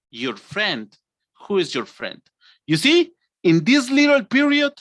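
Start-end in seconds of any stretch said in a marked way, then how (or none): 0.1-2.2 low, suspicious challenge; acted jealous anger, kept low; angry girlfriend. Shown as a demonstration. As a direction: demand it coldly, pitched down. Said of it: "to angry".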